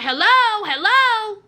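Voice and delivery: high, insistent hellos; calling down phone. Retold or imitated. Girlfriend trying to be heard on the phone, insistent. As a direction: call out into a line where nobody answers.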